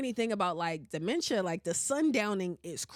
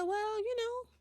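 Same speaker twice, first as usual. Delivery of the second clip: put-on high, quick old-lady voice, matter-of-fact; imitating grandma; 9 semitones higher than usual. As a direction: mimic a blunt grandma dishing out advice. Grandma's remark on her chest.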